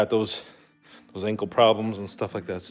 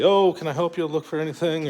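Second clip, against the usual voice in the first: higher-pitched customer-service offer; imitated helpful worker; 6 semitones higher than usual. Store worker offering a customer help, imitated helpfulness. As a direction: play an eager shop assistant, lightly.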